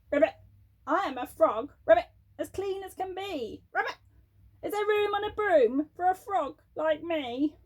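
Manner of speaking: lightly croaked frog voice; a hint of a croaking frog; croaky frog. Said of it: "said with a croak".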